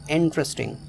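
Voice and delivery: "इंटरेस्टिंग" opening on a stressed "इं". Shown as a demonstration. Teacher repeats "इंटरेस्टिंग", stress on "इं". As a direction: say "इंटरेस्टिंग" as IN-tresting. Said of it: "आई पर stress है".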